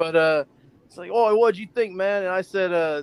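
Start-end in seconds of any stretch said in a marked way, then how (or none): 1.1-2.2 put-on half Australian, with a slight Australian accent. Retelling what Jason three D asked after a show: imitating Jason three D. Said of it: "he sounds Australian half the time".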